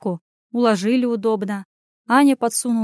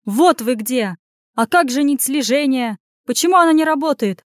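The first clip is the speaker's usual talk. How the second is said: rising, higher and louder questions; agitated questioning; 4 semitones higher, 4 dB louder than usual. Acted. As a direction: fire anxious questions on finding someone. Vesta finds them, questions anxiously.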